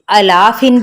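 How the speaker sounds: अला फिन with short first vowel, long ला; uneven stretching. Shown as a demonstration. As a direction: clip the opening अ and stretch only ला. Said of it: "भी नहीं पढ़ना". (अ छोटा, सिर्फ ला लंबा)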